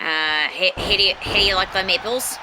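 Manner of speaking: "how do you like them apples" tried in Boston accent but still New Zealand; failed Boston accent attempt. Shown as a demonstration. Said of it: "you're still New Zealand".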